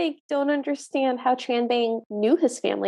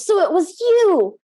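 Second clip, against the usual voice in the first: raised, higher mock yell; retold yell; 5 semitones higher, 5 dB louder than usual. Tranbang confronting the magistrate in a movie retelling, mock yell. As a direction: yell it out as the accusing character. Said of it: "hears this and yells".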